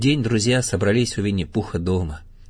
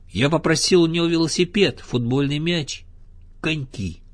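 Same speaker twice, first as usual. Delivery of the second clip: higher, eagerly listed wishes; eager child; 7 semitones higher than usual. A narrator's reading. Little Roo lists gifts asked from Santa, eager and higher. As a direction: list your presents like a thrilled little one.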